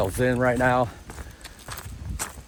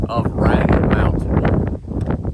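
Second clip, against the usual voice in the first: raised voice against the wind; shouting over wind; 3 semitones higher, 4 dB louder than usual. Real, not acted. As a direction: call it out loud over gusts. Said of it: "I don't know if you can hear me over this wind".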